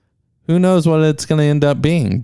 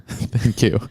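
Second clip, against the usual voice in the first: whisper; 3 semitones lower, 4 dB quieter than usual. Pretend. Playful whisper reply.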